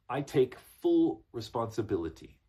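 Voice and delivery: decisive, deliberate statement of ownership; executive authority. Shown as a demonstration. Executive English speaker owns a mistake, firm. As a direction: own it firmly, weight on "full". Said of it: "gonna say it like this".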